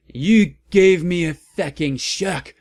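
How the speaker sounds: high, loud startled shout; angry shout. A narrator's reading. Heroine yells at Hargrid, high angry shout. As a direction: yell like you've been startled. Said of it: "I shouted angrily".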